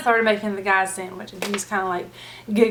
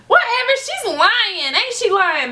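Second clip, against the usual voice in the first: scornful customer; 11 semitones higher, slower than usual. Retold or imitated. Customer calling cashier a liar.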